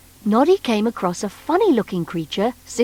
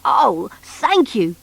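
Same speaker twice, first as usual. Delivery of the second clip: grateful; slower than usual. Acted. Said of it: "said the bunkie gratefully".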